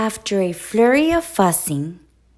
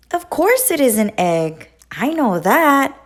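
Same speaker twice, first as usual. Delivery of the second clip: huffy; 5 semitones higher, 3 dB louder than usual. A narrator's reading. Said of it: "huffed Duck".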